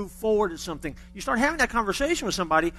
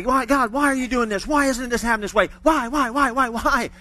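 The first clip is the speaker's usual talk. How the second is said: whiny, repeated why, a touch louder; mock frustrated pleading; 4 semitones higher, 4 dB louder than usual. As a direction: act out the fretful believer. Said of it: "we always focus on the why".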